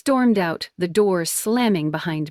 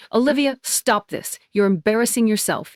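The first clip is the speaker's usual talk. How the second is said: a hint of a sharp scolding mom, quicker at the end; sharp scolding mother; 4 semitones higher than usual. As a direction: snap at her daughter, mildly. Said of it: "voice sharp".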